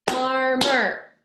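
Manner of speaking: FARMER in two loud, level beats; syllable by syllable. Shown as a demonstration. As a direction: punch out FAR and MER in FARMER. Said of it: "How many syllables".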